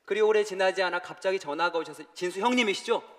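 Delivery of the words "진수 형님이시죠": 형님이시죠 asked higher and louder, hurried; an alarmed caller checking who answered; urgent caller. Retold or imitated. Urgent call from the facility.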